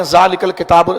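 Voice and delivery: ذالک الکتاب joined as zaalika-l-kitaab; read with vowel marks. Shown as a demonstration. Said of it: "اس کو اعراب کے ساتھ پڑھتے ہیں". (ذالک الکتاب اعراب کے ساتھ پڑھیں)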